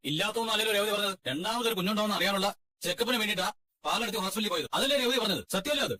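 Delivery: high, heated accusing protest; angry protest. Acted. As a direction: fire back at the in-laws. Quarrel, insisting Revathi told truth. (ഉയർന്ന സ്വരത്തിൽ ദേഷ്യത്തോടെ)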